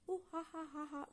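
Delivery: high breathless laugh. Real, not acted. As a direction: laughs through the heat. Laughing at the hot bite.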